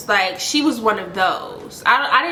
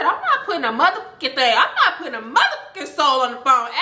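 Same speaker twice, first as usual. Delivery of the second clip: retold irate refusal, a little higher; mock outrage, refusing point-blank; indignant refusal; 3 semitones higher, faster than usual. Storyteller replays refusing the caller's demand, indignant.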